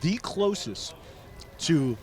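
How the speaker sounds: talking through a mouthful of pizza; words muffled by a bite; mouth full. Real, not acted. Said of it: "talk with my mouth full".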